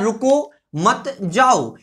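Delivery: रुको set apart, then a slow, spaced मत जाओ; very slow demo, breaking after रुको; pause after रुको. Shown as a demonstration. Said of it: "अब रुकने के लिए बोला गया है". (रुको पर रुककर धीरे से मत जाओ)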